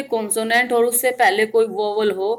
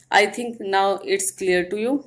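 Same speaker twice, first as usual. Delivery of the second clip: slow; much slower than usual. Shown as a demonstration. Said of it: "checks the class understood".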